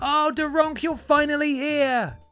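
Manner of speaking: mock excited, welcoming voice. Retelling how the others greet Daronk in the graveyard: imitating welcoming voices. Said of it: "everyone else has gone".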